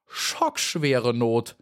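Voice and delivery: slow drawn-out cry of shock; a slow stunned oath; dismayed exclamation. Acted. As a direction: Maya appalled at being called a wasp. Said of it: "rief sie".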